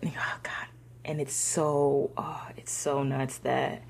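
real grief, voice giving way to breath; slow, whispery, fighting back tears; choked up. Real, not acted. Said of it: "I'm getting all choked up".

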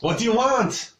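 put-on high, exasperated French-accented demand. Tavern cook demands the knight's business, French accent. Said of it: "you can do a French accent".

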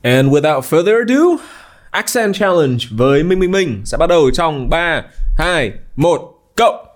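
slow, high, hyped announcer countdown; game show announcer. Acted. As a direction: build it up like a game show host launching a round. Host launching the challenge like a showman.

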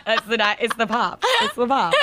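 giggling through the words; laughing. Real, not acted. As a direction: laugh while explaining. Laughing after burping.

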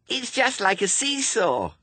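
put-on very high, excited child voice; delighted little girl. A narrator's reading. Little suspect enjoys the ducking stool, delighted.

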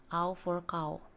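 au in "au for cow" said clearly as an open a gliding to u; corrected model. Shown as a demonstration. Teacher corrects her own slip for students. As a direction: repeat "cow" with a clean au glide. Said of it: "Salah saya".

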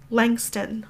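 half-voiced tearful aunt answering the preacher; sobbed. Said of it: "my aunt sobbed".

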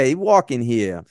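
lightly put-on New York accent; a hint of brash New York accent; mock New York accent. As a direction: toss off a New Yorker movie quote in accent. Mock New York movie quote.

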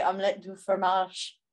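slow mock French accent. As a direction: say it like a cheesy French phrase. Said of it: "go with French and say".

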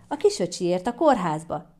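mildly put-on cheer; feigned enthusiasm. Granny explaining hospital trip to child, feigned enthusiasm. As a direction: feign some eagerness for a child. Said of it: "Mami lelkes hangot imitált".

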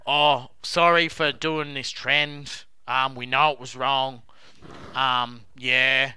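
slow, draggy mock of a sheepish apology. Mocking two players' selfie apology video, slow mock sheepishness. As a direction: stretch it out like a half-hearted selfie apology. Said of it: "two blokes sitting in front of a fucking selfie".

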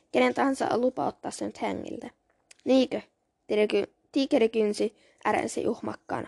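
measured read-aloud of a fantasy novel; story narration. A narrator's reading. Reading a cat-clan novel to listeners, measured storytelling. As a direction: read the story with lightly acted dialogue.

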